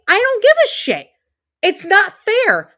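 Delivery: near-shouting frustration; heated rant, voice cracking up high; angry outburst. Real, not acted. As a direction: pitch jumps high in exasperation. Angry rant about bullying.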